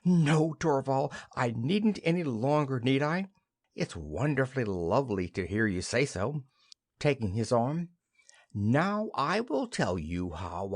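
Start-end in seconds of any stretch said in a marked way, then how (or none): 0.0-6.4 delighted. Acted. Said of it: "Nora, clapping her hands".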